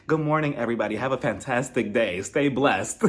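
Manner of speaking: lightly voiced chirpy Facebook mom; a hint of a sweet auntie's greeting post. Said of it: "talks like somebody's mother who updates Facebook".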